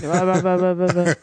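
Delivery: bad bubbling motorboat noise; blowing bubbles. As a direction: sputter the lips like blowing bubbles. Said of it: "that was a bad blowing bubbles impression".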